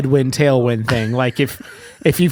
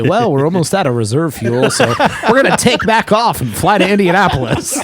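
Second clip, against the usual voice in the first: laughing mock announcement; 4 semitones higher than usual. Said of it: "I really wanted you to say".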